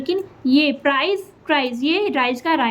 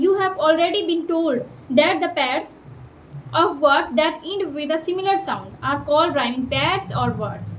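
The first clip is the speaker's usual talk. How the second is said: slow textbook reading; much slower than usual. Acted. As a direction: read the definition slowly and clearly. Reads textbook definition.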